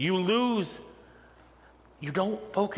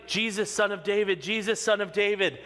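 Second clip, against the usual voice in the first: higher-pitched, repeated mock shout; retold shout; 5 semitones higher than usual. Preacher retelling Bartimaeus calling over the crowd, mild shout. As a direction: call out for Jesus in a raised pitch. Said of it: "Now he's shouting".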